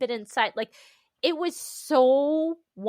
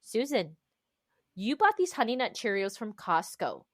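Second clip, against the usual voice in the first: self-coaching. Retold or imitated. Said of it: "I have to coach myself and say".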